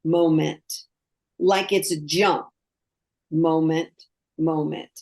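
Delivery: each moment dropped in on its own; isolated, low beats with pauses between; separate beats. Shown as a demonstration. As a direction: say it in detached single words. Illustrating moments as separate jumps.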